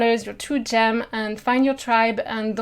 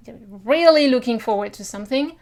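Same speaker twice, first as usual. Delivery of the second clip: "really" stretched out with emphasis; stress on really; faster than usual. Shown as a demonstration. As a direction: lean hard on "really". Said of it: "put some emphasis".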